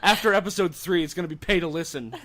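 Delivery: high, loud laughing joke. Real, not acted. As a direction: squeal it out through laughter. Joking about charging listeners.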